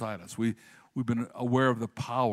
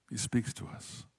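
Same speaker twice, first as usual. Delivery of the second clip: whispered, slow and soft; hushed whisper; 7 dB quieter than usual. Shown as a demonstration. Pastor to congregation, hushing the key line to a whisper. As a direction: let it drop to a breath for effect. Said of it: "repeats the line as a whisper".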